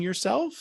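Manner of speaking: yourself. with a high rising question-like lift at the end; doubtful upward swing; upward inflection. Shown as a demonstration. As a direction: make yourself. sound unsure by swinging up sharply. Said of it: "annoyed by my upward inflections".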